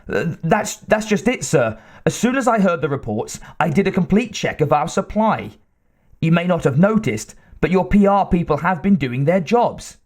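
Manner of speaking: nervous but recovering; hesitant scientist. Acted. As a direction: scientist explaining to his intimidating boss, hesitant. Wyckoff explains.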